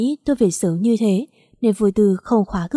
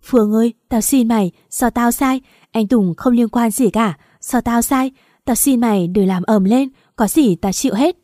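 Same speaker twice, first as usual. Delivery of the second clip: fake pleading; 3 semitones higher, 4 dB louder than usual. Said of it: "giả vờ khóc lóc rồi van xin tôi".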